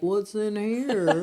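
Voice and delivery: slow, curious goat peeking in; a playful goat, slow and loud; nosy goat voice. Retold or imitated. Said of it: "neck stretched out looking around like".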